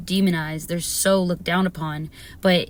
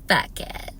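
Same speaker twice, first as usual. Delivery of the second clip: whisper; 4 dB quieter than usual. Real, not acted. Whispered then said aloud.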